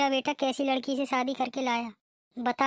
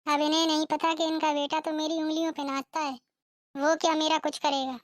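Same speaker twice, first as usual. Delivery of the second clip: smug aside; gloating bride; 2 semitones higher than usual. Acted. (मन ही मन इतराती बहू)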